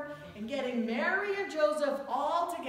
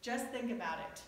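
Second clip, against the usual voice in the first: calm, gently reasoning; 4 dB quieter than usual. Retold or imitated. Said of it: "the pastor very calmly saying".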